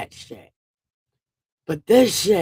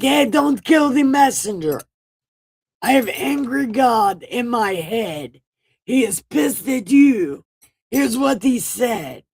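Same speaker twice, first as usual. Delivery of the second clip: higher, louder mock plea of a nervous messenger; frantic Jeremiah; 5 semitones higher, 4 dB louder than usual. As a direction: blurt it like a panicked go-between. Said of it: "But he's like".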